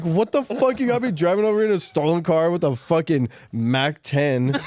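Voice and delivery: laughing while ranting about the stolen car; retold exasperation. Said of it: "I was so pissed".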